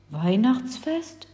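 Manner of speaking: slow, curious question. Acted. Giant hears of Christmas for the first time, curious. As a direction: turn the word over curiously. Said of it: "fragte der Frostriese neugierig".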